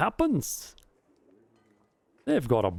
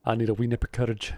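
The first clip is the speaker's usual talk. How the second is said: put-on Scottish accent; 2 semitones lower, faster than usual. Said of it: "My Scottish accent's getting".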